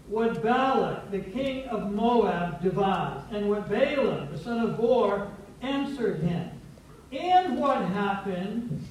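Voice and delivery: slow, solemn proclamation of scripture; scripture reading. Acted. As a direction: read it out deliberately, phrase by phrase. Reads the scripture aloud.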